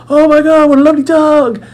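high, loud imitation of a drunk stranger; tipsy woman gushing. Tipsy stranger at the pub coos over the dog, high and loud. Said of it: "she was obviously worse for wear".

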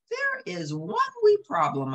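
high Scots worried voice; Scottish terrier. Acted. Jock tells Lady the kitten is gone, Scottish. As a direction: break bad news gently, Scots.

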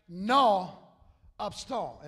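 slow, drawn-out South Louisiana French; slow slang French from South Louisiana. Shown as a demonstration. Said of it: "in South Louisiana, it would sound like this".

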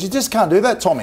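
high-pitched, incredulous objection; retold protest. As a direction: imitate a player protesting to the coach.

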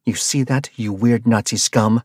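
spitting contempt at the van master; spat insult. Acted. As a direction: spit the words at him. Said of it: "Rabia spat at the van master".

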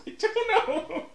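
put-on high, slow Asian accent; drawn-out high Asian accent. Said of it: "Why does the Asian accent always go to you?".

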